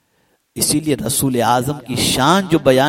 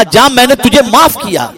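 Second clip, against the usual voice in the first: imam's pardon; 10 semitones higher, 12 dB louder than usual. Acted. The imam forgives his servant.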